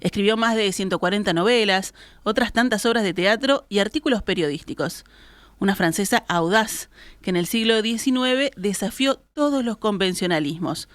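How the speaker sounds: measured scripted read in deliberate phrases; radio feature introduction. Acted. Host introduces George Sand to radio listeners, scripted presenter read. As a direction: present a writer's profile on air.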